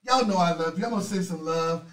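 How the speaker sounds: ordinary delivery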